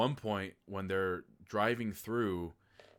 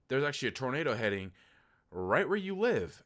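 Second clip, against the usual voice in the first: mock news alarm; 4 semitones higher, 5 dB louder than usual. News warning quoted.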